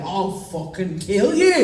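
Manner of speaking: slowed, half-laughing mock threat; playful outrage on a slow threat; mock-angry threat. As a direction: act out exaggerated indignation, drawing it out. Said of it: "And I'm so mad about it".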